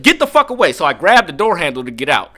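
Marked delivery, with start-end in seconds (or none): 0.0-0.7 retold angry yell. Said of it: "And I said".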